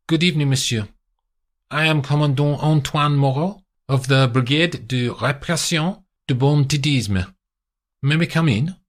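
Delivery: hint of a polite French policeman; lightly voiced French commandant. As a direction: greet him courteously at the door.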